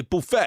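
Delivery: buffet with a long "boo" start; boo-FAY pronunciation. Shown as a demonstration. Co-host showing how double O would sound, buffet as "boo-FAY". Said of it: "it'd be B O O F F E T".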